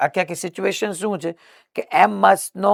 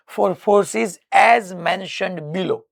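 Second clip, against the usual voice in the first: slow dictation; 5 semitones higher, much slower than usual. Shown as a demonstration. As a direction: spell it out word by word to the class. Dictating question text. (ધીમે ધીમે લખાવવું)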